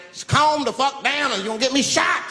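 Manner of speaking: high, exasperated appeal; urgent plea. Acted. Man caught in the middle to panicking passengers, urgent high plea. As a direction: plead high with the whole crowd.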